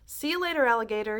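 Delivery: gleeful yell as he jumps; cocky shout. A narrator's reading. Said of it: "he shouted".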